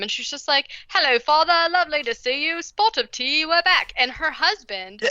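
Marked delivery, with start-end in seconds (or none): 0.9-3.9 high, loud, hammed-up British aunt; terrible British accent. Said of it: "the worst British accent of all".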